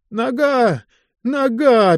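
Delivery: high, anguished cry of pain; wounded man crying out about his leg. Acted. Wounded driver cries out to the commissar, high and anguished. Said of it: "бился в ушах голос Касьянкина".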